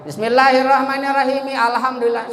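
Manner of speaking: quick recitation, "Alhamdulillah" keeps its first "a" after mi; wrong joining. Shown as a demonstration. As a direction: sound the alif in "Alhamdulillah" when joining. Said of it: "Salah tuh bacanya". (bacaan salah, alif "Alhamdulillah" tetap berbunyi)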